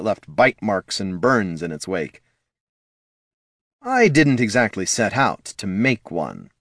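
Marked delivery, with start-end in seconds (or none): 3.8-6.5 mildly smug villain; a touch of smugness. Acted. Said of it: "said the Lich smugly".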